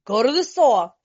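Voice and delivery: laughing through a sponsor's mock advice. Sponsor urging a sponsee to drink, laughing. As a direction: chuckle while playing the bad sponsor. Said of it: "that's her sponsor telling her".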